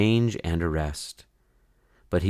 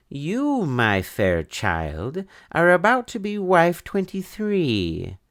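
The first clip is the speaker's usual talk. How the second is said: villainous bandit chief; 11 semitones higher than usual. Acted. Bandit chief Abdul telling Edwina she'll be his wife, hammed-up villain. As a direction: savour the threat like a pantomime baddie.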